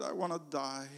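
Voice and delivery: a lonely man tells a stranger he wants to die; despairing. Acted. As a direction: let the words sink to almost nothing.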